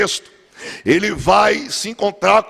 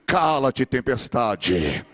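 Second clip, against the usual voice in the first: slow commanding rebuke; 8 semitones lower, 5 dB quieter, much slower than usual. Acted. Jesus rebuking the storm.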